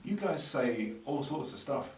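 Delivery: high, drawn-out mimicry with a loud, incredulous finish; Carlos impression. Podcaster acting out a listener's email, high slow impression. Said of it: "that's a really good Carlos impression".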